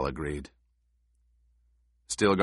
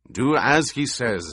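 louder, higher growled command; growled order; 5 semitones higher, 5 dB louder than usual. A narrator's reading. Stilgar tells Chaney to obey Paul, growling. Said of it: "Stilgar growled".

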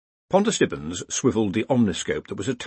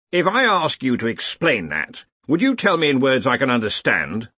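slightly raised, demanding senior wizard; lightly voiced Ridcully-style boss; 4 semitones higher, 3 dB louder than usual. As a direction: press a junior for plain words, lightly acted. Ridcully questions Stibbons in the story.

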